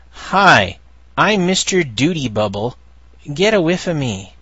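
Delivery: a hint of a proud mascot introducing himself; Mister Duty Bubble voice. Reading a comic strip to listeners, light cheery character voice. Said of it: "there's a guy saying".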